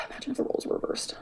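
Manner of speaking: breathy whispered repeat; soft whisper, voiceless. Shown as a demonstration. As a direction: whisper it like a pointed aside. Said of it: "repeats the line".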